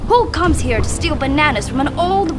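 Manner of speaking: put-on old woman demanding that the thief show himself. A narrator's reading. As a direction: grandmother sharply demanding who stole her bananas. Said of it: "she demanded".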